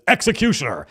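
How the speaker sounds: hammed-up inquisitor verdict; booming accusation. Inquisitor head addressing the Judge, booming.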